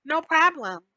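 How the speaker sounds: lightly voiced teen brushing off mom; a hint of a bratty daughter talking back; mock teen to mom. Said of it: "when they're around their parents".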